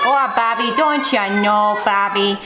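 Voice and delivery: light imitation of the Bobby's World mom's accent, drawn out. Vlogger recalling the cartoon mom, lightly doing her accent. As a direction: lightly do the cartoon mom's accent, stretching "don't you know". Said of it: "we could say in that accent".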